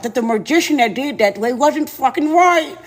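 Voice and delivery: lightly voiced beast; creature that can't talk right. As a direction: chew the words like an animal tongue. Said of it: "so he can't talk right".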